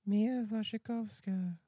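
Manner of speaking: Mia Wasikowska said slow, syllable by syllable; careful name pronunciation. Shown as a demonstration. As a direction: Mia Wasikowska with a high, drawn-out start. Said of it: "how to pronounce Mia Wasikowska".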